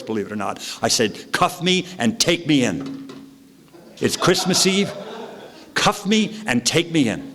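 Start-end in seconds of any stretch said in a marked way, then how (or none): 1.3-7.2 high, slow pleading to the cops. Retold or imitated. Drunk driver pleads with cops, high and slow. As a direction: beg the officers to cuff him, high and slow. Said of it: "in this tone of voice".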